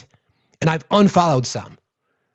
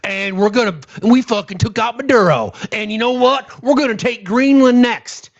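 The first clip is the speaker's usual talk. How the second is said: a mild whiny mock of a gloating voter, higher at the end; mocking maga voice; 4 semitones higher than usual. Mocking maga voters gloating about gas prices, lightly whiny voice. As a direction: sneer it like a smug supporter. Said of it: "bitching and moaning about saying".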